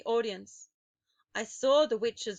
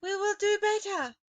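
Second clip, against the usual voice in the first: murmur; 11 semitones higher, 5 dB louder than usual. A narrator's reading. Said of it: "murmured the audience".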